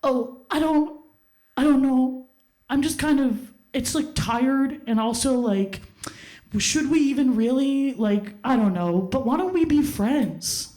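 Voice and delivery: lightly voiced mumbling boy, unsure; hesitant guy. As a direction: hedge and stall like a guy ducking the question. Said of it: "he says to me".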